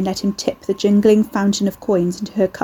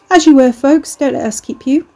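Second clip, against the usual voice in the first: loud announcement; 6 semitones higher, 6 dB louder than usual. A narrator's reading. Ricky addressing whole shop.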